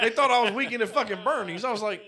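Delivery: laughing through the punchline; amused disbelief while laughing. Real, not acted.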